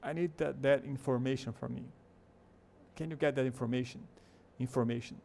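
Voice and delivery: INFORMATION with the O fully sounded, "in-FOR-mation"; unreduced O each time in INFORMATION; strange full O. Shown as a demonstration. Teacher showing how odd it sounds, full O in INFORMATION. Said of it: "É, soa bem estranho".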